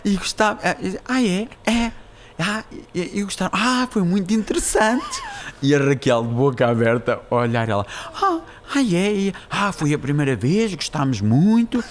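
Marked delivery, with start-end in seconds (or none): 0.1-5.2 high, dainty granny voice; cute little old lady. Acted. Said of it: "com uma voz fofinha". 8.1-11.8 high, cooing granny voice; slow down into drawn-out, cutesy enthusiasm; cute little old lady. Acted. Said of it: "com uma voz fofinha".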